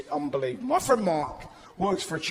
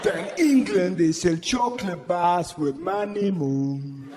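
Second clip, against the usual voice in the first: indignant penguin. Pretend. Penguin-complaint character rant.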